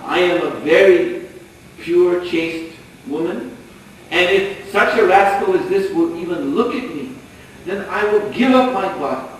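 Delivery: haughty pride. Acted. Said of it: "she very proudly, arrogantly".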